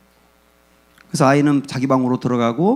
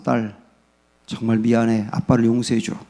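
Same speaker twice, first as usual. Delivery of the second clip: lower, softer, tender father's plea; a father gently asking his daughter to forgive him; humble apology; 6 semitones lower, 4 dB quieter than usual. Retold or imitated. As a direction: quietly beg your daughter's forgiveness.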